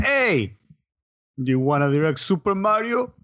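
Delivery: put-on Japanese-accented English. Imagining someone offering a guy off the street a directing job, imitating a Japanese accent. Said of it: "that's all the Japanese sound".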